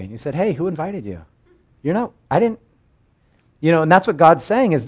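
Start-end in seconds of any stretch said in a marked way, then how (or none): 0.4-2.6 indignant homeowner. Retold or imitated. Homeowner confronting the uninvited guest.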